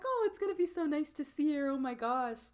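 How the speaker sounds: lightly voiced doting parents, gushing; imitating grinning parents. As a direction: gush fondly, as if grinning. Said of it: "sitting there kinda grinning".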